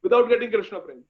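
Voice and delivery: high-pitched, emotional begging; tearful pleading. Acted. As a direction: beg through tears, loud at first, then falling back. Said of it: "They are crying. They are saying".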